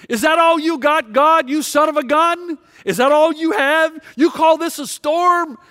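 defiant yelling. Retold or imitated. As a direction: taunt the heavens like a broken soldier. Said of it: "And he yells".

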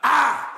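"I" punched high and loud, standing alone; forceful, isolated shout of "I"; emphatic I. Shown as a demonstration. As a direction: hit "I" hard and let it ring. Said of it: "Did you hear my emphasis".

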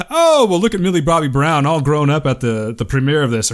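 lightly voiced harmless compliment; a hint of a proud uncle gushing; mock innocent gush. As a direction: read it as a sweet, innocent remark. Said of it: "But did he say it like this".

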